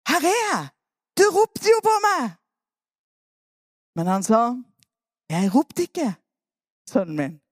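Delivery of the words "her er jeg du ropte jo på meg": put-on eager boy. Samuel running again.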